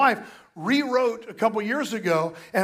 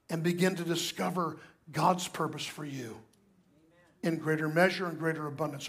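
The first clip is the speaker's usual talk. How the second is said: softer, lower voice; soft intimate preaching; 4 semitones lower, 6 dB quieter than usual. Real, not acted. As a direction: draw them in quietly.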